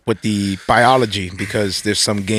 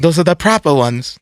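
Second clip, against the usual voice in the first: mock British accent; 3 semitones higher than usual. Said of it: "British accent".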